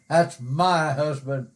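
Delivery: "my" leaned on in "my husband"; my as the key word; stress on MY. Retold or imitated. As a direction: put the weight on my. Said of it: "put some emphasis on that personal pronoun".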